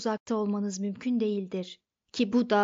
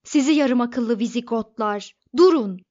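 much louder, full-throated yell; yelling at the top of his lungs; 8 dB louder than usual. A narrator's reading. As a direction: scream at the demolition crew. Arthur keeps yelling at crew. (avazı çıktığı kadar bağırış)

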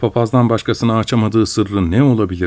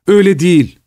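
higher, half-sobbed cry of protest; sobbing shout; 8 semitones higher, 4 dB louder than usual. Acted. Mother crying out at her son through sobs. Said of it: "diye bağırdı annem hıçkırıklarla".

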